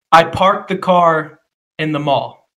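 slow, careful model sentence. Shown as a demonstration. Friend sets a sentence to repeat, slowly. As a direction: say it slowly so he can copy it. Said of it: "I'm gonna give you a sentence. Just say it back to me".

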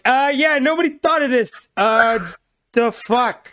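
high, loud mock-exasperated computer voice; a hammed-up annoyed Google scolding the user; Google yelling. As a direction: play the search engine fed up with you. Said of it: "This is Google yelling at me".

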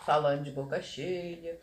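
talking while sipping coffee; words around a mouthful of coffee; mouth full. Real, not acted. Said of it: "a gente tá tomando café de novo".

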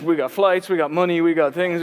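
mock big-spender brag; mocking flashy Yankee. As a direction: rattle off the perks like a show-off. Mocks the flashy Yankee's offer.

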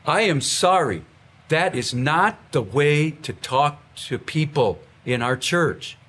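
a mild, firm pastoral rebuke; sharp rebuke. Shown as a demonstration. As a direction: show how to correct someone sternly but calmly. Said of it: "talk like this".

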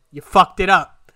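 loud angry self-scold. Retold or imitated. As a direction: tell yourself off, loud and bitter. Berating himself in his head.

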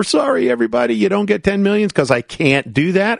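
hammed-up pretend breakdown, pitch way up; mock crying. Listener facing the billionaire's test, mock crying apology. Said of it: "Would you start crying".

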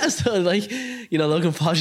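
high laughing burst. Real, not acted. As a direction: laugh through the words. Laughing at developer's claim.

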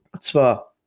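fast, breathless whisper aside. Pretend. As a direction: hush it like a secret tip. Sudden whisper in podcast talk.

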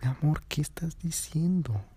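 high, giggly disbelief; laughing denial. Retold or imitated. Drunk girlfriend giggling at her boyfriend's accusation, high and amused.

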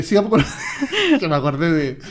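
normal talking voice

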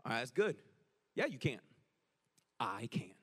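low, unhurried reply; God answering back. Acted. God answers the believer's cry, low and calm. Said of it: "he's gonna answer back and say".

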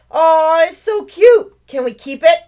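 high, loud cooing delight; gushing child. Acted. Little girl begging to keep the baby otter, high excited cooing. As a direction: squeal over something adorable.

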